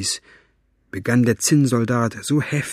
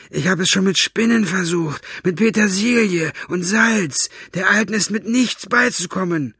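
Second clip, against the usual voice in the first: high scornful Buster; 9 semitones higher than usual. Acted. Buster complaining.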